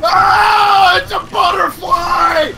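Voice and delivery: high slow startled shout; mock alarm. Real, not acted. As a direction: act spooked by nothing.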